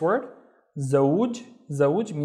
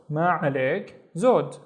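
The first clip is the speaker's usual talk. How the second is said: ما عليك زود quicker, in one flow; joined up; faster than usual. Shown as a demonstration. Teacher repeating the response, ما عليك زود quicker. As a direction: run ما عليك زود together briskly.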